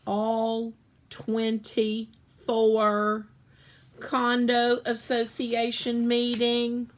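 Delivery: slow, broken phrases, too upset to finish; sputtering out fragments, slow and pained; halting, upset mother. Acted. Mother reporting the ruined sneakers, halting and distraught.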